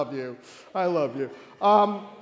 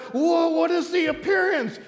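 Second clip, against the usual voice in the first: high, loud stagey question; dramatic acted alarm; 9 semitones higher, 5 dB louder than usual. Saul asks the woman about the vision, loud and dramatic. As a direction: cry it out like a king in a play.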